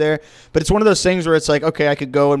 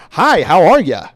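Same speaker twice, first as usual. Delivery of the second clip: European mimicking a stiff white American guy voice, louder; Dave Chappelle's white guy voice; 3 semitones higher, 6 dB louder, slower than usual. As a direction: put on a caricature white-guy greeting. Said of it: "Dave Chappelle's white guy voice".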